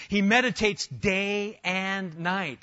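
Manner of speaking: slow, drawn-out stress on "day and night"; emphatic correction. Acted. Corrects the mock misquote with real verse.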